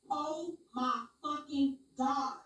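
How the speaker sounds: slow, drawn-out amazement; stunned disbelief. Real, not acted. Reacting to the AI's answer, stunned. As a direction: stretch every word in shock.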